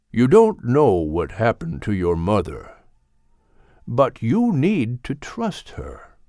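lightly deepened, slow and earnest elder; a patient elder teaching, slow; wise old Gilliman. Acted. Old Gilliman teaches puppy Max about parents, slow and earnest.

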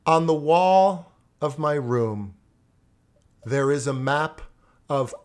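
big, slow, over-enunciated recitation; loud, slow, clear. Retold or imitated. Student finally reciting his poem for the teacher, loud and slow. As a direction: project each word slowly, as if screaming. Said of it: "Wasn't I screaming?".

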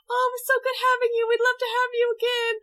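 high, gushing grandma farewell; doting grandma. Retold or imitated. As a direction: send him off like a doting granny. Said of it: "such a grandma".

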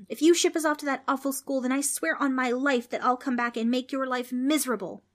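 high-pitched heated threat; angry shout. A narrator's reading. Trix warns the ghost about that awful school, shouting. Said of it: "Trix shouted".

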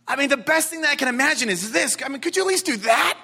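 mildly pleading, voice lifting at the end; mock pleading. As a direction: imitate someone bargaining hopefully with God. Acts out someone praying to God.

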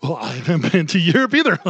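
laughing mock of Kamala's excuse. Mocking Kamala's Europe excuse, with a laugh. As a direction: giggle through it like her. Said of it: "And you're like".

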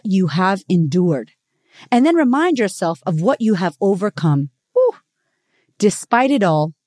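measured, heartfelt reading voice; calm spoken-word reading; reading a reflective piece. Acted. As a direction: read it like a gentle essay to listeners. Reads a written piece aloud.

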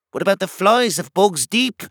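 high character voice from a crowd; crying out. A narrator's reading. Someone in the crowd raising a problem, called out. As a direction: call the question out, pitched high. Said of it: "cried a voice from the crowd".

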